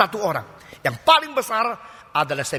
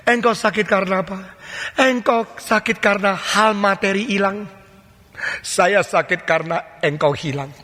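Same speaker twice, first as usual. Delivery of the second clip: gentle, sorrowful voice of God; a touch of God's tender sorrow; tender divine rebuke. Acted. God speaking to sufferer.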